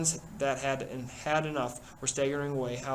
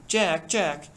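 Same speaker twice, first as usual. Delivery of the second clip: mocking echo of Piggy, louder; bitter mimicry; 4 semitones higher, 6 dB louder than usual. Jack mocking Piggy's cry, bitter mimicry. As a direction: throw his words back at him. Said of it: "Jack's voice sounded in bitter mimicry".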